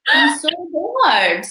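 high, slow, drawn-out "I'm so bored"; mock bored complaint. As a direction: groan it like a bored viewer. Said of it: "I'm like".

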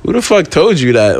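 annoyed challenge, retold with some heat; retold pissed-off. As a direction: re-enact an indignant confrontation. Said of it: "I start getting pissed".

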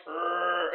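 soft rumbling "rrr" imitation; low thrum. Imitating a film's muffled scream for friends, low thrum. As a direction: hum a quiet, crunchy growl. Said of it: "like, this low thrum of".

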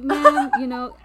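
high, polite service voice; sweet talk to a customer. Retold or imitated. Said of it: "my customer service voice comes out".

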